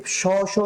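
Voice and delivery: "sh sh" of escaping air; balloon air rushing. Shown as a demonstration. Teacher likens the sound to a balloon, rushing air. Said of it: "balloon ফোলানোর পর ওইখান থেকে".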